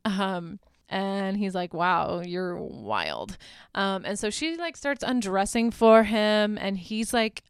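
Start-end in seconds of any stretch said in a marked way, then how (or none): 1.7-3.4 slow, drawn-out imitation of awe; mock spaced-out wonder; dazed amazement. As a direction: stretch it out like someone tripping. Drugged man marvels at her.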